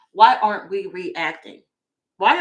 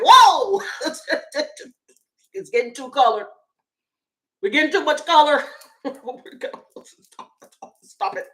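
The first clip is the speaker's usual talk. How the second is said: high, breaking into laughter; cracking up at her own mock racist voice; laughing through it; 5 semitones higher, 3 dB louder than usual. Real, not acted. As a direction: crack up mid-line.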